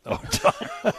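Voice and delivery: very high mimicking whine; mocking squeaky echo.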